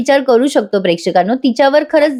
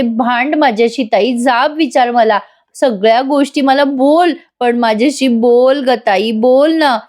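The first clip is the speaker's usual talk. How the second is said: begging with folded hands; 2 semitones higher, slower than usual. Acted. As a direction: beg her slowly to just speak to you. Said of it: "हात जोडत असते बरं का बिचारी काव्या". (हात जोडून काव्या ताईला हळू, आर्त स्वरात विनवते)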